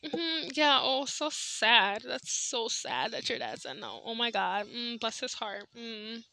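sarcastic pity, trailing off quietly; mock sympathy. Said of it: "I was like".

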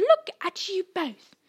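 high, loud exasperated cry; indignant shriek. A narrator's reading. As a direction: shriek at two fools in trouble. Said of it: "shrieked Hermione".

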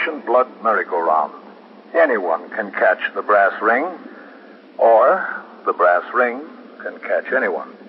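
measured, reflective radio narration; closing narration. Acted. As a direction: wrap up the episode thoughtfully.

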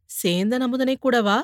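softly. Acted. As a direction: drop the voice as you slip in the name. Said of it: "கொஞ்சம் மெல்லிய குரலில்".

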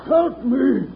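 strained cry for rescue; yelling for help. Acted. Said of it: "somebody's still yelling for help".

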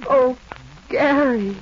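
Gary bursts out high and loud; overjoyed cry. Acted. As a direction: let his name burst out in joy.

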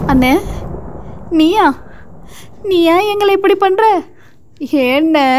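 high, heartbroken cry to a trusted brother; betrayed wail. A narrator's reading. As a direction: hen wailing at the man she trusted. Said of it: "அவள் கதறலை". (நம்பியவனிடம் உடைந்து கதறும் குரல்)

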